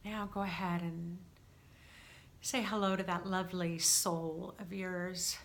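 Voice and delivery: calm, unhurried meditation guidance; guided meditation. Real, not acted. Guide settling listeners for a cleansing breath, calm meditation voice. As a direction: ease them into it, leaving gentle pauses.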